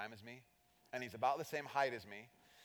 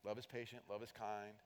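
soft reading; 4 semitones lower, 9 dB quieter than usual. Shown as a demonstration. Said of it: "Here's what love looks like".

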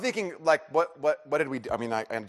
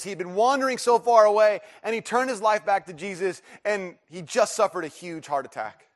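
high, loud retold outburst; imitated distress; 9 semitones higher, 8 dB louder than usual. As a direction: pour it out as the upset neighbor, easing at the end. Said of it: "she starts crying, and she goes".

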